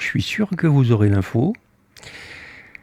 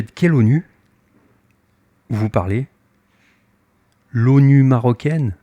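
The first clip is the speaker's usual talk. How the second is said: mocking question; 3 dB louder than usual. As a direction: toss it back with a sneer. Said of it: "il se moque de moi". (question moqueuse, un peu traînée)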